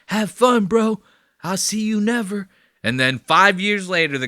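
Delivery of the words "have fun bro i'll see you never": mocking send-off. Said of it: "he goes".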